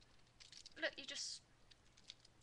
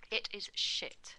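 disgusted whisper; slower than usual. Real, not acted. Disgusted verdict on the toy.

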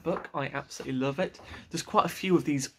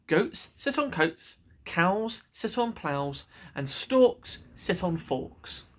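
slow, deliberate reciting of rules; know-it-all cat; 3 semitones higher, much slower than usual. Acted. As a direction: spell out the obvious rules like a smug cat.

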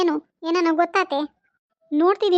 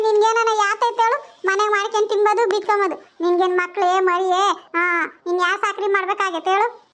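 scolding mother-in-law; 3 semitones higher than usual. Acted. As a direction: lay into her, voice raised.

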